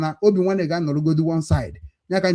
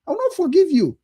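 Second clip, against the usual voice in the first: angry outburst; 10 semitones higher than usual. Real, not acted. Angry vow of no forgiveness.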